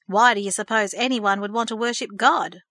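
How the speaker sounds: mocking echo of her question. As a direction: throw her words back, teasing. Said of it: "mocked Thomas".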